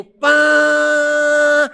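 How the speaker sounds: loud high imitated trumpet "Pã"; trumpet blast. (imitando a trombeta)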